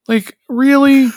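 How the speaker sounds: high, drawn-out disbelief; really, are you kidding me; incredulous. Real, not acted. Incredulous reaction.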